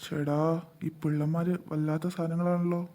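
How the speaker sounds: soft, slow sly aside; muttered aside. Acted. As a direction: grumble it under your breath.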